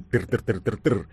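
rapid spoken rat-a-tat; imitated gunfire. A narrator's reading. Narrator voicing an angry Kalashnikov burst, rattling imitation. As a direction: rattle it off like an automatic rifle. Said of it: "разразился гневным".

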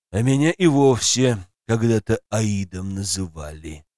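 dragon voice. Acted. Dragon Zmey reassures Masha.

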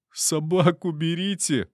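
high, slow whining plea; whiny plea. Acted. Caught intruder whines at soldiers to remove dogs, high whining. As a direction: whimper it like a scared drunk. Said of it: "плаксиво проныл".

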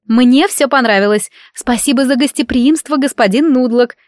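sweetly sung-out thanks; angelic little voice. Acted. Milorada thanks the sorcerer sweetly, angelic sing-song. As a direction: sound like an angel. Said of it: "пропела Милорада ангельским голоском".

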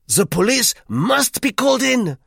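high, loud triumphant Frenchman. A narrator's reading. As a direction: crow that you were right.

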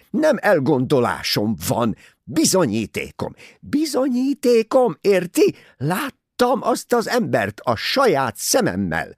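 high, loud fierce insistence; fierce like a tiger. A narrator's reading. Mrs Otterborn turns on the colonel like a tiger, high and loud. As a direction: pounce on them with the word. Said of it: "mint valami tigris".

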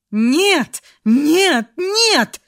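крик всё выше и громче; кричи, срываясь всё выше; отчаянный крик. A narrator's reading. Фрея кричит в ужасе. (Фрея в ужасе кричит: нарастающий высокий вопль)

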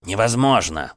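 indignant. Acted. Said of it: "сверкнул глазищами Кречет".

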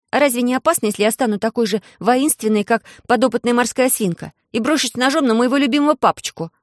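звонкий детский голос, заметно выше; бойко, по-девчачьи; девочка Алиса. Acted. Голос Алисы. (Алиса, высоким детским голосом)

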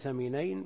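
ثمينين with TH as in "think". Shown as a demonstration. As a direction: begin ثمينين on TH instead of S. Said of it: "بالمثلثة بدل السين". (ثمينين بالثاء بدل السين)

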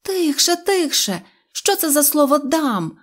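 put-on high-pitched girlish reproach; indignant. A narrator's reading. Knopochka rebukes Neznaiko for his threat, indignant. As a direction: hush and scold in a high voice. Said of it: "обурилася Кнопочка".

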